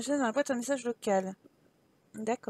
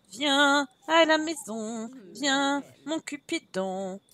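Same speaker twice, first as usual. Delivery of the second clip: slow coaxing call; 3 semitones higher, much slower than usual. Pretend. Cajoling call to spouse.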